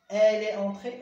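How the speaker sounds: slow, loud and high, entré stretched; teacher stressing a model sentence; emphasized example. Shown as a demonstration. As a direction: hold each word of "Il est entré" out for the class. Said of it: "او اكسون او".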